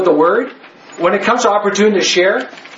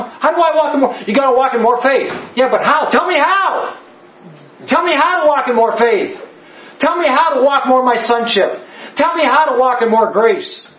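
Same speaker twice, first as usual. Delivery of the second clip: building fervour, pleading for answers; worked-up preacher demanding to know how; all worked up; 4 semitones higher than usual. Real, not acted. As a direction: pitch climbing higher, pressing each demand. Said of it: "Am I screaming or am I mad or am I just all worked up?".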